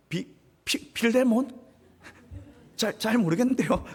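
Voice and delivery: stammering, caught-off-guard slave; flustered stammer. Acted. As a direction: stumble over the name in a panic. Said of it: "당황해가지고". (당황해서 더듬는 오네시모)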